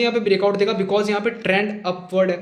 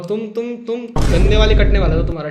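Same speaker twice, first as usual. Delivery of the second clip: louder, hammering the warning home; emphatic loud warning; 6 dB louder than usual. Real, not acted. Teacher warning students they would have been badly stopped out, loud. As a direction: warn them hard, voice up.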